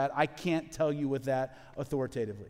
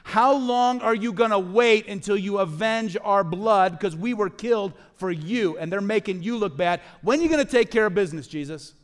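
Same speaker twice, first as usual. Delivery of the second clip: martyrs crying for vengeance; 5 semitones higher, 8 dB louder than usual. Retold or imitated. Martyrs crying out to Jesus, a loud urgent plea. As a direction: cry out for justice, louder and louder. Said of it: "The people that have been martyred".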